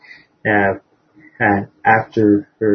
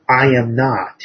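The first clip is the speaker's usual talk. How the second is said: angry shout; 4 semitones higher than usual. Acted. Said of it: "shouting very, very angrily".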